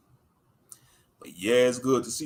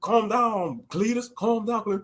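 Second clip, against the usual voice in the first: a hillbilly sidekick talking a buddy down; slightly higher, restrained mock hillbilly; lightly voiced hillbilly; 5 semitones higher than usual. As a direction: play the calmer of two hillbillies. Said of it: "two hillbillies".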